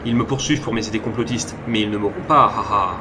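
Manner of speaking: put-on light Russian-accented French. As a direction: paranoid man with a Russian accent. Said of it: "vous savez faire l'accent russe avec ça?".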